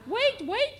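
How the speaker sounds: high, loud, alarmed yell. A narrator's reading. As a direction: cry out to stop someone. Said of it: "yelled everyone".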